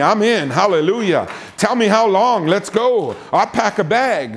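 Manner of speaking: lively, bouncing eagerness; eager volunteer. Acted. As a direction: pile up the reasons like you can't wait to go. Eager volunteer acted after grudging one.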